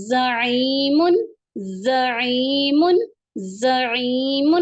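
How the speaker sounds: انزل said very slowly with a hissing ز; repeat-after-me model. Shown as a demonstration. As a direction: stretch انزل for pupils to echo. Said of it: "آپ بھی پیچھے پیچھے پڑھیں میرے".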